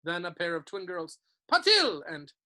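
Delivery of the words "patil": calling out names. A narrator's reading.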